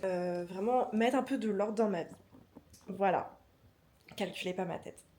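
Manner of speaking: groggy just-woke-up voice; sleepy morning voice. Real, not acted. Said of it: "j'ai ma voix du matin".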